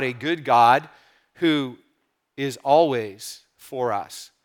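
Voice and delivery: gentle, earnest prayer voice, easing down toward the end; pastor's prayer. Acted. Pastor praying for his church before the reading, earnest prayer voice. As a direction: pray sincerely over the congregation.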